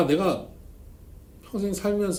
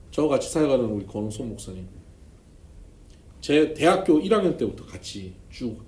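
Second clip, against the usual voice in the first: ordinary delivery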